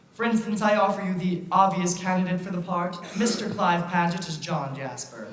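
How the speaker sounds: steady theatrical presentation; melodrama narrator. Acted. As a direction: present the villain grandly. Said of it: "we boo and hiss the villain".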